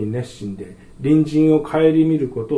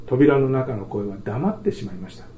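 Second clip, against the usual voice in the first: ordinary talk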